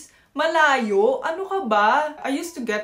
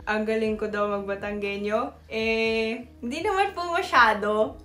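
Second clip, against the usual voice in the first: put-on Batangueño accent. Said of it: "Magte-try na po ulit ako mag-Batanggenyo accent".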